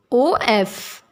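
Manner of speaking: letter by letter, O then F; teacher spelling each letter of "O F" aloud; spelled out. Shown as a demonstration. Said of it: "of great".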